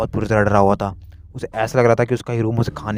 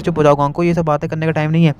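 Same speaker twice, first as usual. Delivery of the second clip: scolding mother; 6 semitones higher than usual. Acted. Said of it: "मिस्सो की mom कहती".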